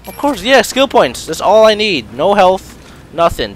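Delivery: high, loud, bitter sarcasm; sarcastic rant. Real, not acted. Gamer given skill points instead of health, loud sarcasm. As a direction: loudly pretend this is exactly what you wanted.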